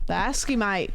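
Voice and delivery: short practice stab at Australian; attempted Australian accent. Streamer practising friend's slang, attempted Australian accent. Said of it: "I'm trying my best here".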